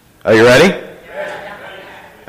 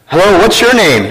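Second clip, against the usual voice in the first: lightly acted telemarketer, higher voice; 5 semitones higher than usual. Telemarketer asking a small boy's name, lightly acted higher voice. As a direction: greet the child as a phone seller. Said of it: "A telemarketer".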